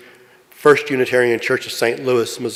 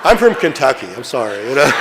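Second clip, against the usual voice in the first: laughing apology. Real, not acted. Apologizing for mispronouncing a name.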